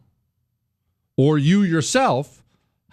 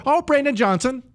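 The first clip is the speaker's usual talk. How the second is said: mock sheepish answer; 11 semitones higher than usual. Voter answers.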